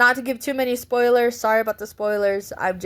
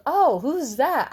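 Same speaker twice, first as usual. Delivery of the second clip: family member asking; 7 semitones higher, slower than usual. Retold or imitated. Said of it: "he goes".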